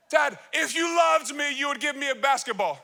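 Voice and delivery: hammed-up begging child; whining kid. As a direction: zeur het als een kind dat een bal wil. Son whining for gift.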